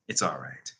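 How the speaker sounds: mildly soothing, low and soft; reassuring. A narrator's reading. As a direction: gently assure him, voice dropped. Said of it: "the vampire assured him".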